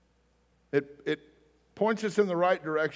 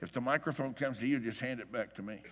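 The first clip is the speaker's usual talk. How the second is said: lowered voice, quietly imitating a whispered request; retold whisper; 3 semitones lower, 8 dB quieter than usual. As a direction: drop to a hushed aside, fading softer. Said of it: "So I whispered to her".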